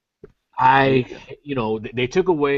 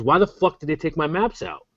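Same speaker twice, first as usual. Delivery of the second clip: mildly heated retold rant, a bit higher; imitating an angry friend; 5 semitones higher than usual. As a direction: play the furious buddy, lightly. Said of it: "he was infuriated".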